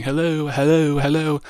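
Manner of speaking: a mild mock yell; mock screaming. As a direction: mimic his pointless yelling. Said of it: "scenes where he's just screaming".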